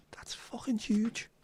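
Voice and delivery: slow, breathless whisper of disbelief; awed whisper. Real, not acted. Staring at a huge crane fly near the light, slow awed whisper. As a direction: hush it out slowly as if the bug might hear.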